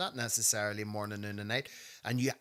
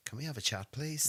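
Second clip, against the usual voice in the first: calmly voiced polite request, lifting on the last word; 2 semitones higher than usual. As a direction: ask calmly, with no shouting. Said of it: "quite calmly say".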